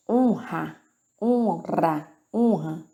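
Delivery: "Honra" with a throaty strong R after the n. Shown as a demonstration. Teacher drilling students on the R after a consonant, careful. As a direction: repeat "Honra", the R rasped in the throat. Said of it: "R depois de consoante e que tem um som forte".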